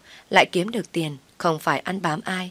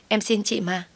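a higher, more desperate plea; higher begging; 5 semitones higher than usual. Acted. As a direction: beg again, voice lifting in desperation. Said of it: "van xin tôi rối rít".

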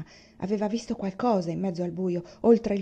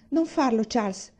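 higher and louder urgent warning; alarmed plea; 3 semitones higher, 4 dB louder than usual. Acted. Ma begs Papa not to shoot, urgent raised plea. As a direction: stop him before he fires.

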